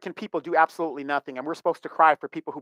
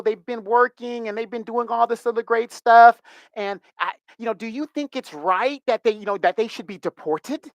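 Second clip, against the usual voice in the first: higher-pitched mock Latina accent; Latina accent imitation; 5 semitones higher than usual. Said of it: "Sorry about the accent".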